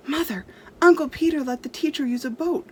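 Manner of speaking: put-on a child's lively voice; eager boy. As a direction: tell mother with delight. Boy tells mother eagerly.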